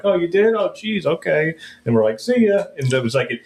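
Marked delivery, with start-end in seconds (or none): 0.0-1.5 much higher, mock deflated agent voice; lightly hammed-up agent; surprised insurance agent. 2.2-2.6 smug mock farewell; cheeky goodbye.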